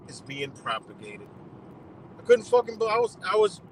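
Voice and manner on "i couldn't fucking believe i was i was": stunned disbelief. Real, not acted. Disbelief outburst.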